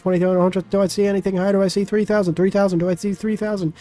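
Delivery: high-pitched auctioneer patter. Acted. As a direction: rattle off bids like an auctioneer. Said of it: "my auctioneer voice".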